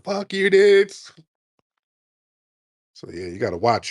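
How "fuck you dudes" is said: slow, much higher, louder parody snarl; mock angry loner. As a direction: sneer it slowly like an unhinged kid. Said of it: "shoot up a bunch of old black people".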